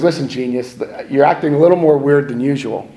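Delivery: quoting the sponsor while laughing; half-laughing retelling of the warning; laughing quote. Retold or imitated. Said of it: "And he goes".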